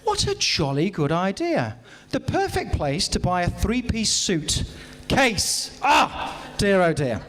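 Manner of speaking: slow, jolly-good posh gent voice; hammed-up upper-class reply; mock posh reply. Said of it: "I turned to her and said".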